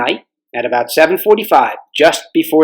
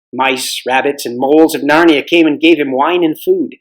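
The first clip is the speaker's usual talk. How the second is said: story narration. A narrator's reading. Recap before reading chapter.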